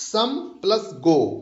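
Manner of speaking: some and go set apart as two syllables; split into syllables. Shown as a demonstration. Teacher counting one foot, syllables set apart. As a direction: separate some from go around the word plus. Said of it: "यहाँ पर एक feet हुआ".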